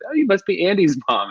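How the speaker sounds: mock gushing greeting; acted delighted recognition. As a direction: play a townsperson thrilled to place a stranger. Voicing townspeople recognizing his mom.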